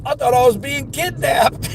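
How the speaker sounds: high-pitched imitation of a rattled customer; retold alarm. Customer explains fright to delivery driver, high mock alarm.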